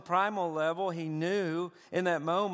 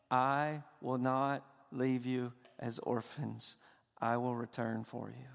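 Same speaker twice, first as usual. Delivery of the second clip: tender promise; 3 semitones lower, 3 dB quieter than usual. Retold or imitated. Father promising orphan boys.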